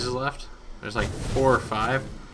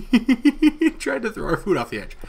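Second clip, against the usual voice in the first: excited; 9 semitones higher, 4 dB louder than usual. Real, not acted. Mob tosses food, laughing.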